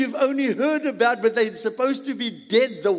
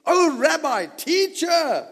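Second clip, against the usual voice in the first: blurting out excitedly; 6 semitones higher, slower than usual. Acted. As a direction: blurt it out, overwhelmed. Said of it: "He blurted out".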